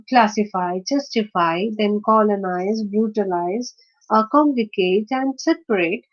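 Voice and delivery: "classify" through "separate", each stressed on its first syllable. Shown as a demonstration. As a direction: lead with the first syllable of "justify", "colonize", "brutalize". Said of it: "the stress is on the first syllable".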